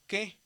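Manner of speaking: "que" with the diphthong said as a single e; modern Greek pronunciation. Shown as a demonstration. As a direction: say "que" as one short syllable ending in e. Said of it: "se dice como E".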